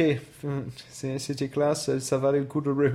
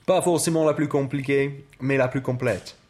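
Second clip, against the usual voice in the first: put-on French with an English accent; 4 semitones lower than usual. Debating which language is more complete, English accent.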